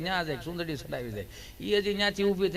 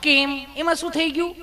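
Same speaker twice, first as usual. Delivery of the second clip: high, sweet and insistent nurse; nurse's voice; 8 semitones higher, 4 dB louder than usual. Retold or imitated. Nurse insists sweetness is her job, high and loud. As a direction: push it up high and sugary.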